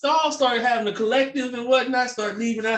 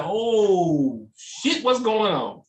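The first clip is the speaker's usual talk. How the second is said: startled, hammed-up "oh shit"; mock alarm; much slower than usual. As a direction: act like you just spotted the pigeons. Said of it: "you'd be like".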